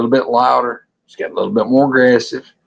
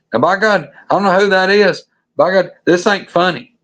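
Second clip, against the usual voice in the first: rattled protest; 6 semitones higher than usual. Retold or imitated. Rattled buddy protests in retold scene.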